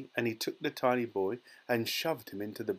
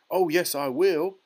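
high, loud, defiant little voice; tiny squeak; 7 semitones higher, 9 dB louder than usual. A narrator's reading. Shrunken boy contradicts his mother, squeaking. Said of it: "squeaked the tiny voice".

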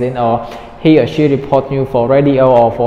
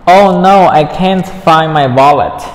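dismayed; 6 dB louder than usual. Acted. Dismayed dialogue line read.

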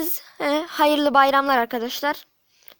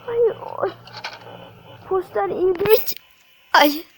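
gasping for air; 2 semitones higher than usual. Real, not acted. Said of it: "Nefesim kesildi".

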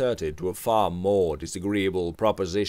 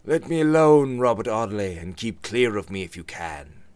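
louder, rough dismissal; hoarse voice; 2 semitones higher, 6 dB louder than usual. Acted. George rebuffs Robert in a hoarse angry voice. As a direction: push him away with a rasp. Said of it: "same hoarse voice".

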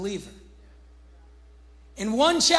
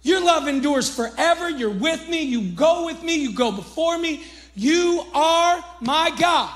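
hyped-up praise; 3 semitones higher than usual. Retold or imitated.

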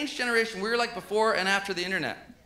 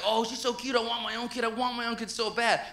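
pitched-up, lightly acted longing; imitating his own smitten pleading; mock gushing; 3 semitones higher, 3 dB quieter than usual. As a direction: gush as if smitten with a toddler. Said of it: "'cause I was like".

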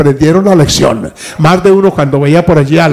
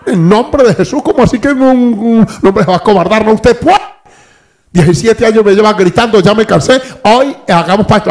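higher urgent wife voice building to vamos; encouraging wife; 4 semitones higher than usual. Retold or imitated. Wife urging husband to make the pact, rising urgent voice. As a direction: push him on, voice climbing.

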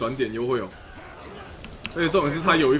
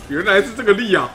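much higher and louder, a sudden aha; excited realization; 8 semitones higher, 10 dB louder than usual. Real, not acted. Streamer suddenly getting the joke, with a loud, high excited aha. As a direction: burst out as the penny drops.

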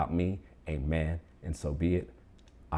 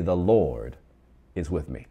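bold, confident proclamation; bold declaration; 4 dB louder than usual. Shown as a demonstration. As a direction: LORD punched out loud. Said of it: "Say it with some boldness".

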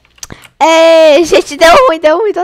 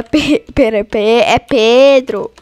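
stammering; 5 semitones lower, much slower than usual. Real, not acted. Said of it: "eu tô gaguejando até demais".

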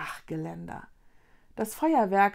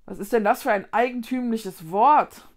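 probing teacher; 6 dB louder than usual. Acted. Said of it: "bohrte der Lehrer weiter".

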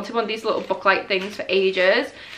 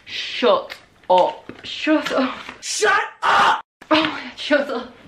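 rising disbelief; 4 semitones higher, slower than usual. Real, not acted. Unboxing fan building to a high excited shout.

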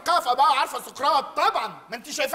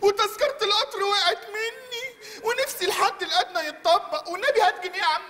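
mock whining; 4 semitones higher than usual. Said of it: "ده انا اغلب من الغلب".

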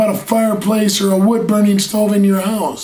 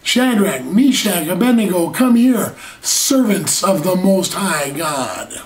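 king calling them out. Retold or imitated. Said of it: "When he called them out".

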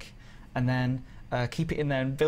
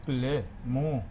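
fake French; much slower than usual. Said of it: "It's not French".

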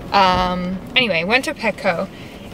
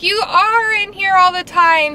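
quoting the guy; 10 semitones higher than usual. Retold or imitated. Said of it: "he was like".

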